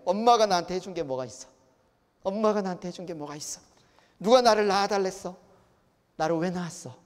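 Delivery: put-on resentful child lashing out at parents; mildly heated acted reproach; child's harsh complaint. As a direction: throw it accusingly at a parent. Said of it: "심한 말들을 하죠".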